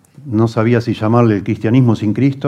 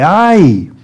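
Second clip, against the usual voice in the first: loud, high cry of woe, drawn out; acted tragic outcry; anguished lament; 9 semitones higher, 5 dB louder, much slower than usual. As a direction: wail it as a grieving warning, preached not sobbed. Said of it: "Es que da ganas de llorar".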